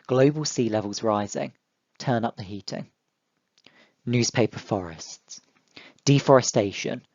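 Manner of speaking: gentle classroom poem recital; poem reading. Shown as a demonstration. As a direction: read the haiku aloud line by line to the class. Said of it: "I'll read them out to you".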